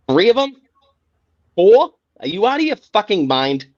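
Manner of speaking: you can't believe anyone bought it; incredulous outburst. Real, not acted. Incredulous rant at team's plan.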